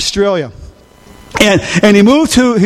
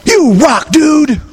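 surfer cheer; 4 semitones higher, slower than usual. Retold or imitated. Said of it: "they said to him".

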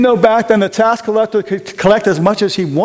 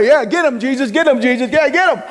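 egging on the crowd; 6 semitones higher than usual. Pretend. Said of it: "I bet the hell".

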